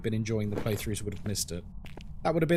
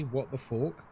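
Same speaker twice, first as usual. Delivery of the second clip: put-on French accent; 5 dB quieter than usual. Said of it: "how the French would say".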